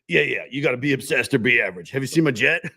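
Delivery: a cocky, boastful self-help guru; Grant Cardone impression. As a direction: brag like a hyped-up millionaire salesman. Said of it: "now I gotta get my best Grant Cardone voice".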